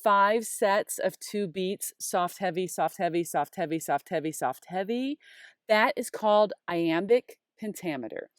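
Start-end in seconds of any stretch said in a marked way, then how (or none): 2.0-5.2 "soft, heavy" chanted in even pairs; rhythmic recital of "soft, heavy"; beat pattern. Shown as a demonstration. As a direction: run "soft, heavy" five times like a steady beat. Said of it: "This is what that beat pattern".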